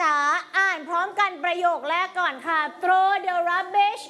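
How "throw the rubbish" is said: each word stretched out slowly for the class to repeat; slow model reading. Shown as a demonstration. Teacher reading rules aloud for pupils to repeat, slow and deliberate. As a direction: read it slowly, word by word, like a drill.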